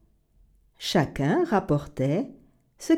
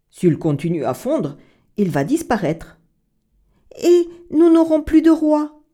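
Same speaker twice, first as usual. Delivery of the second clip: worried townsfolk; 2 semitones higher, 5 dB louder than usual. Acted. The townsfolk fearing for their king, anxious and loud. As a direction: fret out loud like a panicked crowd.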